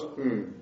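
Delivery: soft low hum after the phrase; under-breath hmm. Retold or imitated. Squeaky voice preacher closing his sermon, soft low hmm. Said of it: "under their breath as they finish up talking".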